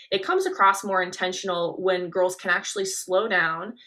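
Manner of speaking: slow and articulated; slow down and articulate each word; slow, deliberate. Shown as a demonstration. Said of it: "just like I'm doing now".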